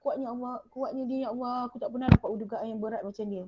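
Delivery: very soft, hushed acted inner voice; quiet, awed thinking aloud; inner thought. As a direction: murmur it privately, as if only to yourself. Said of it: "Walaupun dalam hati kita".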